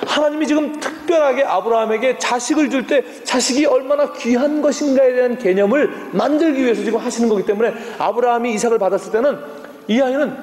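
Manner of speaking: ordinary talk, nothing marked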